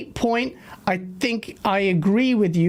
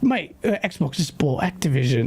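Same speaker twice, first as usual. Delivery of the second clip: lower-pitched, badly faked Cockney; attempted Cockney impression; 5 semitones lower than usual. Friend breaking news of the Xbox deal, imitated in bad Cockney. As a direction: imitate a Cockney mate, roughly. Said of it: "I can't do Cockney".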